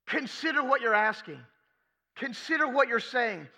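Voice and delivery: Jesus, earnest and patient, a touch of urgency; firm teacher's insistence; voicing Jesus. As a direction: speak as Jesus correcting his friends. Preacher voicing Jesus at length.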